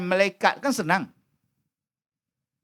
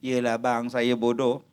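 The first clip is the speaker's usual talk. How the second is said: lower, softer, sulking reply; sulky wife; 11 semitones lower, 5 dB quieter than usual. Retold or imitated. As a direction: give in with a pout. Wife answers husband sulkily. (isteri merajuk dengan suara perlahan)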